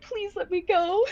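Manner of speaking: slow, drawn-out little plea; pleading. Acted. Ruby begs the man she robbed, pleading. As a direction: beg to be let go, half laughing. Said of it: "a very pleading look".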